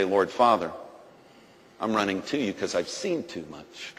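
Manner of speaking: surge toward God with everything; rising fervent prayer. Retold or imitated. Preacher acting out running to God, fervent crescendo. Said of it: "go the other direction and say".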